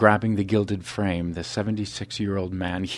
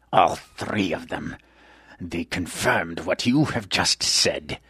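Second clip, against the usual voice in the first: taunting; 3 dB louder, slower than usual. Acted. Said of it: "the huge man taunted".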